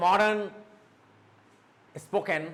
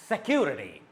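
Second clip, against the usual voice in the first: Security with CU raised, then falling away; stress on CU; 3 semitones lower than usual. Shown as a demonstration. Teacher giving another example word, stress on CU. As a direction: lift the second syllable of Security. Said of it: "this part will go up".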